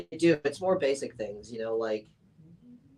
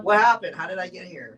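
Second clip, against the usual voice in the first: mock dazed confusion; 7 semitones higher, 8 dB louder than usual. Her dazed self waking up.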